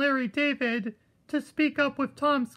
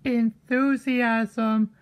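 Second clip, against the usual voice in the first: Enthusiasm dragged out slowly; drawn-out word; much slower than usual. Shown as a demonstration. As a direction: say Enthusiasm very slowly, each syllable apart. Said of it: "To curb your enthusiasm".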